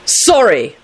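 unremorseful. A narrator's reading. Neville forced to apologize to Rosie, unremorseful. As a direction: spit out an insincere apology. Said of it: "Neville spat out unremorsefully".

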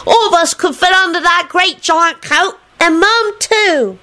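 put-on high, eager child's voice; high-pitched kid enthusiasm; enthusiastic holler. A narrator's reading. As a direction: pipe up excitedly, stretching the last words. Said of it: "Nicholas hollered enthusiastically".

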